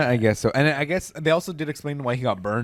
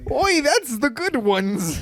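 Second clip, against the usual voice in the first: high, slow mock Jewish accent; hammed-up Jewish accent, slow and high; 11 semitones higher, much slower than usual. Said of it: "Jewish accent".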